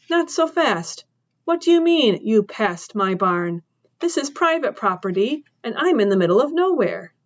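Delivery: a hint of a tough farm woman cross-examining; woman questioning the trespasser, incredulous; suspicious woman. Woman character challenging.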